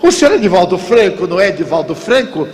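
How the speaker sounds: high, fast, excited recognition; suddenly knows the voice; stranger recognizing. Retold or imitated. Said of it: "Ele diz". (estranho reconhece Divaldo, agudo e rápido)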